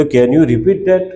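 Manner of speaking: very slow, every word laid out for the class; slow model sentence. Shown as a demonstration. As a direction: say it slowly like a teacher modelling English. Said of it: "તો".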